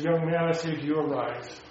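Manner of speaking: quiet command. Acted. Retelling Jesus raising the corpse.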